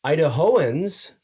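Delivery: "Idahoans" said slowly, each syllable drawn out, EYE-duh-HO-unz; careful pronunciation. Shown as a demonstration. Host corrects the name of Idaho natives, saying "Idahoans" slowly. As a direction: spell out "Idahoans" slowly with a rising end. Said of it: "which I believe is how you pronounce that".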